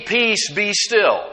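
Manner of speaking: slow, measured command to the sea; calm command. Acted. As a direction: say it slowly and steadily, settling the water. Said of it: "And said to the sea".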